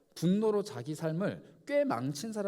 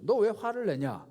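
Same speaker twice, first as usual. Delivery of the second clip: God questioning Cain; 4 semitones higher, 4 dB louder than usual. Acted.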